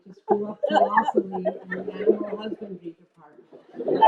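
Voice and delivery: wry laugh. Real, not acted. Wry self-mockery.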